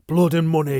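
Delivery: loud high bitter shout; furious shout at his betrayer. Acted. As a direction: hurl the words at her. Furious quarrel.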